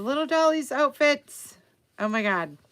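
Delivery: squealing high over the doll outfits; all excited. Real, not acted. Crafter showing a doll page to viewers, thrilled and squealing. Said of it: "I'm all excited".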